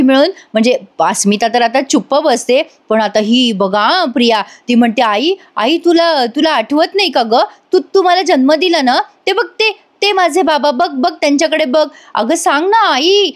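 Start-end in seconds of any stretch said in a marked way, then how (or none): 5.0-13.3 higher-pitched pleading, no real shout; mock insistent yelling. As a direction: press mother urgently, voice lifted. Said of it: "Priya त्यांच्या कानाशी मोठ्या मोठ्याने ओरडत असते". (आग्रही आर्जव, हलकासा ओरडण्याचा अभिनय)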